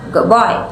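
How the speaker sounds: put-on "good boy" with the D turning toward B; assimilated D. Shown as a demonstration. Presenter showing assimilation, D in good said like B. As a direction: run "good boy" together as "goob boy". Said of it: "to sound more like a B".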